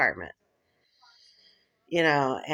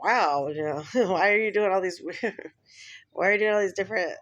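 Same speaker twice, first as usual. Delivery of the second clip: laughing quote; 3 semitones higher than usual. Retold or imitated. Laughing while quoting boyfriend.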